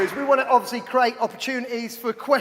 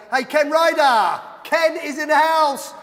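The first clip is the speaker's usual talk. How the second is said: raised, drawn-out announcer-style welcome; hyped-up shout-out; 3 semitones higher, 4 dB louder than usual. Real, not acted. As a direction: call out the guest's name big and high. Host hypes up next guest's arrival.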